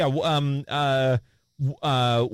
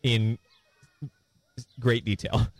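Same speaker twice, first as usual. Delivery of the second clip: tag dictating; 5 semitones lower than usual. Real, not acted. Dictates the prompt to typist.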